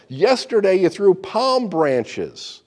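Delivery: loud, slow, hurt protest; shouting. Acted. Donkey protesting to the crowd, loud and slow. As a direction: cry out that yesterday was different. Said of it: "he shouted".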